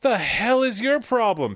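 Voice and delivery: a bruiser yelling at whoever tripped his buddy; big guy snapping. Acted. GM voicing the boss turning on the tripper, snapping.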